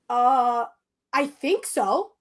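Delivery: halting, drawn-out reply; stall, then answer slowly and unsurely; hesitant pausing. Retold or imitated. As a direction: imitate a stoned, hesitant answer. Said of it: "I keep pausing".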